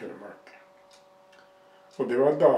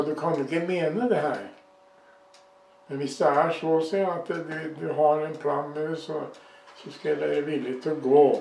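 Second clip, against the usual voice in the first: raised, pleading prayer; calling to the Lord; 3 semitones higher, 4 dB louder than usual. Retold or imitated. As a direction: cry out earnestly to God. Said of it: "Da ropte jeg til Herren". (hevet, bønnfallende rop til Herren)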